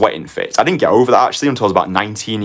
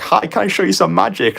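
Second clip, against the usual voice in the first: put-on timid young magician; 12 semitones higher than usual. Timid teen offering magic tricks.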